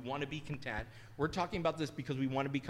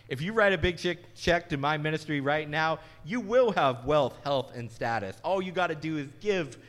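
much louder, booming mock prosperity pitch; mocking TV ministries demanding money, booming hammed-up pitch; hammed-up TV preacher; 7 dB louder than usual. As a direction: push hard for the check right now. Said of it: "usually say".

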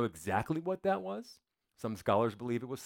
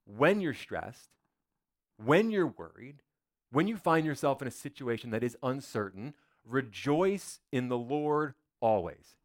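slow, deliberate reading of scripture; measured, reverent scripture read; slow solemn quote. Acted. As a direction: lay each clause down slowly. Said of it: "Paul says".

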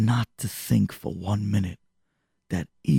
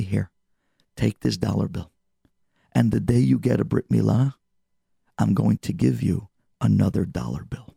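warm words. Acted. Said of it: "with very warm words".

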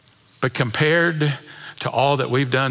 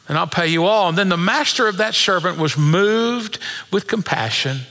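raised, measured Bible reading; scripture reading; 4 semitones higher than usual. Acted. Preacher reading Matthew to church, raised and measured. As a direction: read the parable to the congregation, lifted.

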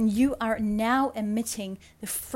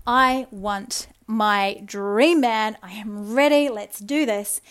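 eager declaration; 6 dB louder, slower than usual. Retold or imitated. Telling the universe she's ready.

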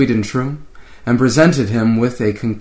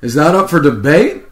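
sneer; 4 semitones higher, 5 dB louder than usual. Acted. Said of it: "McCoy said with a sneer".

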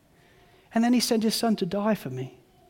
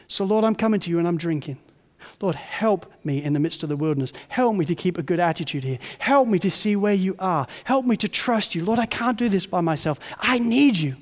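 prayer. Acted. Praying aloud.

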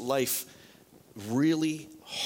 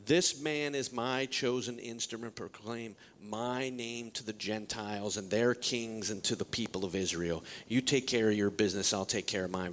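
God's command; 6 semitones lower than usual. Acted. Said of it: "He says".

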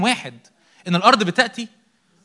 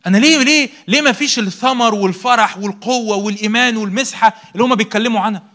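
raised, pleading why; frustrated plea; 3 semitones higher, 5 dB louder than usual. Pretend. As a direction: cry out like a frustrated believer. Preacher voicing frustrated believer.

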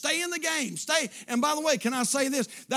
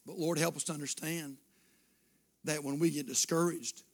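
closing prayer; 2 semitones lower than usual. Acted. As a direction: pray gently over the room. Closing prayer over music.

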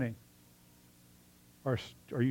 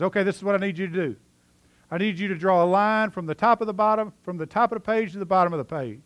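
higher, louder, brisk teacher giving orders; loud bossy teacher; 7 semitones higher, 4 dB louder than usual. Retold or imitated. Teacher to her sixth graders, loud and brisk. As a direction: rattle off the instructions like a busy teacher.

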